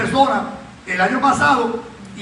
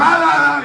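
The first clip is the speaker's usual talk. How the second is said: louder, higher shouted ah again; possessed crying out; 4 semitones higher, 6 dB louder, slower than usual. Retold or imitated. Visitor starting up again mid-service, a loud possessed ah. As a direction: shout the ah like he's being taken over. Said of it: "Cambiando la voz".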